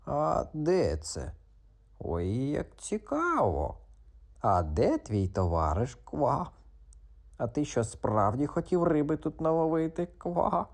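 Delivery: slow high questions; curious frog. Acted. Frog peppers the cat with questions, curious. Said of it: "засипав питаннями Грицик".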